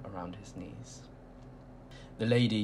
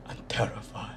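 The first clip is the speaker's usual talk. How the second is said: whispered menace. A narrator's reading. Mister Tall promises the crowd terror, whispered. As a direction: drop to a whisper on terrify. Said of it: "his voice was low and croaky".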